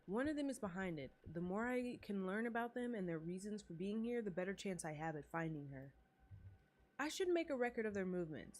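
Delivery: steady narration of the character's thoughts; lightly voiced inner monologue; reading inner monologue. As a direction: read the heroine's thoughts aloud. Reads protagonist's thoughts aloud.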